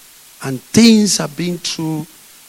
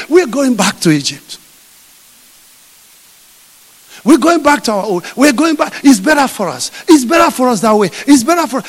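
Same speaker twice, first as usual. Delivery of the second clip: grumbling threat; 4 semitones higher, 4 dB louder than usual. Acted. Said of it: "every time they said".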